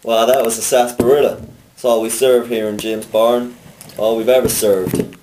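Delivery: hammed-up Southern accent; Southern barkeep, proud. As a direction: announce it proudly like a saloon keeper. Cowboy bartender role.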